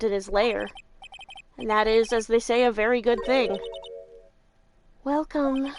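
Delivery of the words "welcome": creepy voice. Acted. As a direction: greet them like a ghostly clerk. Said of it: "Talk about a creepy voice".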